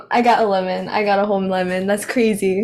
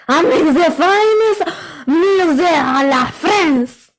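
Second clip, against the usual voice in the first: put-on French accent. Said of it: "French chef from Ratatouille".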